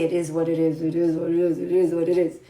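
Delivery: repeated mantra. Shown as a demonstration. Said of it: "Every day you have to say".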